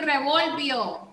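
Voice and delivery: revolvió wrongly stressed on "vol", with unaccented ending; misplaced stress. Shown as a demonstration. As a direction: say revolvió as re-VOL-vio, final o left weak. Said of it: "Recuerden hacer, ponerle el acento".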